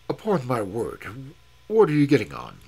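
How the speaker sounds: loud indignant challenge; bristling, rising indignation; indignant outburst. A narrator's reading. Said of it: "said he".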